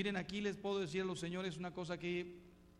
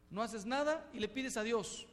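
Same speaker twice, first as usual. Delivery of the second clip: scolding; 5 semitones higher, 4 dB louder than usual. Real, not acted. Scolding the congregation.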